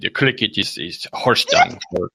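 put-on haggling character voice; fussy comic customer; prank-call father. Father telling phone seller he understands about crickets, fussy.

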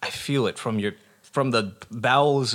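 overflowing gratitude, high and loud; gushing. Acted. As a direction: gush with exaggerated thanks.

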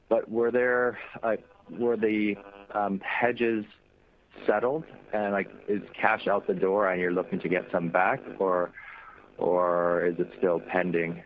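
static-filled phone line; talking through a crackly connection; crackly cordless phone. Real, not acted. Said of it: "There seems to be a lot of static on the line".

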